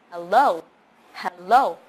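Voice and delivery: HELLO as "heh-LOH", stress still on LO; first vowel "eh". Shown as a demonstration. Teacher showing the other correct way, "eh" in first syllable. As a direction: open HELLO with "eh", then punch LO. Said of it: "the first vowel sound is a eh".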